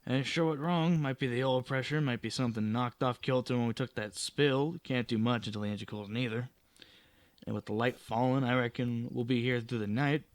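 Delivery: lightly voiced country mechanic sizing up a breakdown; understated rustic character voice; folksy mechanic. Voices Silas the mechanic in story.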